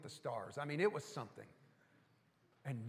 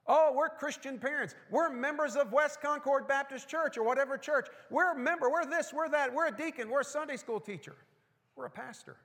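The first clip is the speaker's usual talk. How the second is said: higher, louder smug boasting voice; mock pious parent; 7 semitones higher, 5 dB louder than usual. Preacher mimics smug Christian parents, high loud boast. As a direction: parody a proud churchgoer listing titles. Mocking self-satisfied churchgoers.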